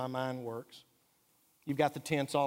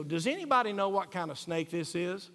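asking about a snake. Retold or imitated. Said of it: "take a picture of a snake and go".

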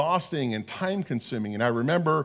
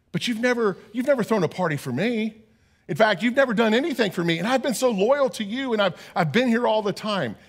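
higher and pitched up, a mock indignant complaint; resentful older son; 4 semitones higher than usual. Older son protesting to his father, hammed-up grievance. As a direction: plead your unfairness like a wounded older brother.

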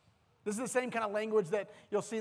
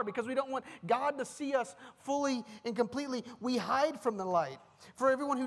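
rising passion; 4 semitones higher than usual. Real, not acted. Preacher builds passionate questions.

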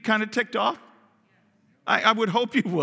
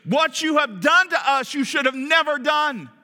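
rebuke; 6 semitones higher than usual. Acted. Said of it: "Abimelech rebuking Abraham".

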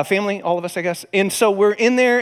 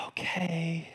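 reluctant assent; 14 dB quieter than usual. Retold or imitated. Reluctant acceptance of God's order.

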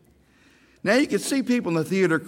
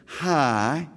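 light friendly greeting, a hint of Mary Hart; a polite, sweet hello; said nicely; slower than usual. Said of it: "She said it so nicely".

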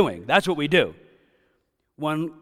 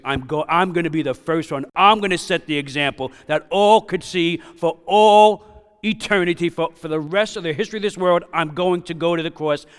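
higher and louder, declaring it with fierce resolve; resolute cry of surrender; 4 semitones higher, 7 dB louder than usual. Acted. Jesus to his Father in agony, loud resolute vow. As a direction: proclaim it like a man choosing the cross. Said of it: "He's saying".

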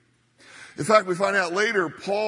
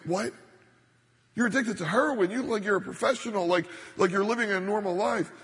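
higher, mildly incredulous questioning; retold disbelief; 3 semitones higher than usual. Pastor retelling his reply to an addicted young woman, mildly incredulous. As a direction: replay a startled reaction, voice lifted.

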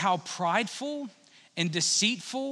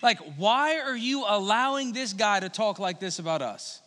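mildly indignant questioning; a touch of exasperated disbelief; upset. Acted. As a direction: voice an upset challenge, lightly acted. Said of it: "David is all upset".

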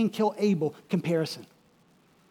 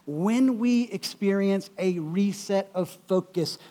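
ordinary talk, nothing marked

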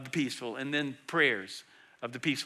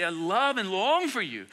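slow, tender "I love and long for you"; loving pastor; 3 semitones higher than usual. Retold or imitated. Pastor voicing Paul as a loving pastor, tender and slow. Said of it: "He's a loving pastor".

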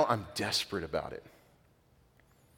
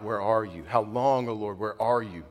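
crying out. Retold or imitated. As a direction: cry it out, pleading. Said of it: "I'm crying out".

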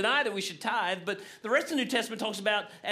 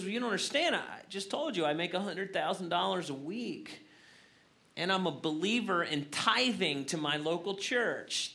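calm punchline voice. Retold or imitated. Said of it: "the calm man".

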